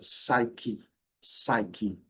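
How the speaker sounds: "Psyche" as SAI-ki with a clear final I; com clareza. Shown as a demonstration. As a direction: say "Psyche" crisply, both syllables clear. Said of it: "com uma certa clareza". ("Psyche" com o "i" final bem claro)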